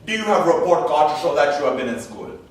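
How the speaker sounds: lightly voiced school official; a hint of an interviewer's formal questioning. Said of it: "because of the following conversation".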